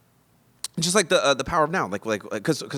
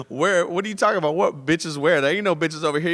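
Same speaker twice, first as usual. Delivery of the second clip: put-on girl's indignant retort; 8 semitones higher, 6 dB louder than usual. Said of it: "and she was like".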